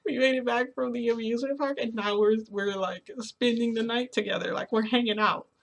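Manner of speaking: mildly giddy, lifted pitch; excited. Retold or imitated. Telling viewers about the night together after the amusement park, excited. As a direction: gush to the listeners with excitement. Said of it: "I was, like, excited".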